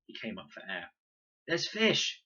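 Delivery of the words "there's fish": loud excited call; excited shout from the river. A narrator's reading. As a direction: shout the news from the water. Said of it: "he called".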